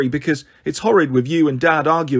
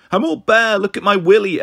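put-on higher, gleeful little-kid voice; small boy showing off; 4 semitones higher than usual. Naked little brother to his sister, gleefully showing off. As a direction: crow like a naughty little boy.

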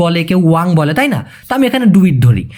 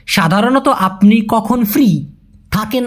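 slow clear demo; 2 semitones higher, slower than usual. Shown as a demonstration. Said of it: "এই ফরম্যাটটা হয়ে যায় এরকম".

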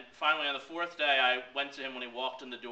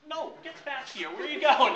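calling after him; 13 semitones higher, 9 dB louder than usual. Retold or imitated. Calling after departing boss.

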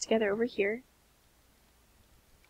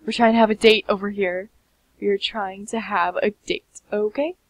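mock annoyed; 6 dB louder than usual.

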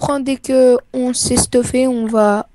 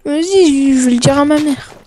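put-on fast, whiny little kid voice; childish tattling. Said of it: "Elle va le dire à ta mère".

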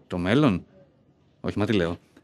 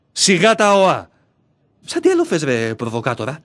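mocking anger. Arguing with his inner self.

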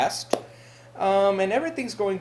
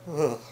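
disgusted groan; 6 semitones lower, 5 dB quieter than usual. Acted. Disgusted at stepping in piss.

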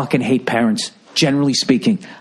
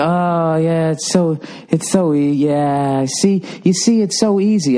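smug mom impression; 2 semitones higher, slower than usual. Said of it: "She's go".

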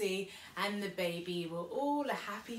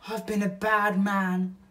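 repentant Bill; 3 semitones higher, 9 dB louder than usual. Acted.

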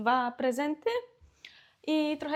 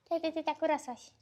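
put-on a higher, sing-song "Kiedy ty tak urosłaś?" cooed to a baby; baby talk; 5 semitones higher than usual. Mother cooing to her baby daughter, high baby talk. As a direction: coo "Kiedy" up high like talking to an infant.

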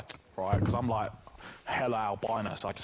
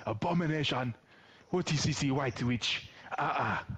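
mock auntie. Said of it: "my auntie calling me abomination".

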